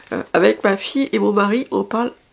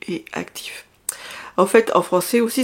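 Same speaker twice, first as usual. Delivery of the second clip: whispered, much softer; whispered aside; 3 dB quieter than usual. Real, not acted. Quiet aside mid-explanation.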